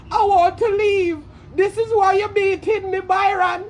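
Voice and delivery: a mock sob as a woman begs her abuser; mimicking Bree crying. Bree pleading with Byron, in a mock tearful whine. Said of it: "Bree say".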